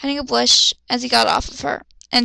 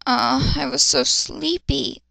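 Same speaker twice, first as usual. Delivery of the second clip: put-on sleepy girly voice; slower than usual. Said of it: "Luna said".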